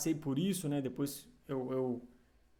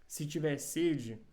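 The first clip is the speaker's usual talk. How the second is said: scripture reading. Acted. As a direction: read each verse out deliberately, with pauses. Reads Bible verses aloud.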